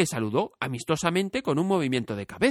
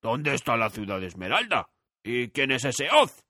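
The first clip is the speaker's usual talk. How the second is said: puzzled scarecrow. A narrator's reading. Scarecrow asks Dorothy where Emerald City is. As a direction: wonder aloud, clueless.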